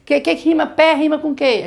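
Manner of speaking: the wrong way to ask; wrong way demo. Shown as a demonstration. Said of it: "A gente não fala assim". (pergunta do jeito errado, mais aguda)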